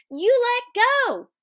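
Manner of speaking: very high, loud, stretched demand; high-pitched insistent yell; alarmed cry. Acted. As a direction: shout to be released. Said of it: "she cried".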